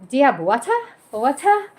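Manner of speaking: lightly put-on British accent, questioning lilt. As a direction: imitate British English, dropping the R in water. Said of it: "teach me the British accent".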